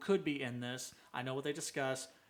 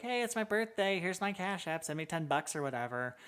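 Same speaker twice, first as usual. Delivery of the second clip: higher-pitched mimicry of asking for cash; mock birthday plea; 4 semitones higher than usual. Imitating acquaintances begging for birthday money online, mock plea. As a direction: put on a high, entitled plea.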